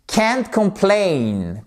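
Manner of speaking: Can't complain, slow, complain stressed on the second syllable; teacher models complain with stress on plain. Shown as a demonstration. Teacher drilling French students, slow careful stress on complain. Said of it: "accentuation sur la seconde syllabe".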